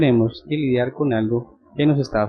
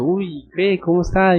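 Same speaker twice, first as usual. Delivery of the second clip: higher-pitched, eager mock questioning; retold curiosity; 6 semitones higher than usual. Curious young uncle asking about a newborn nephew, retold curiosity. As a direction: imitate a boy keen for news. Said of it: "yo era muy curioso".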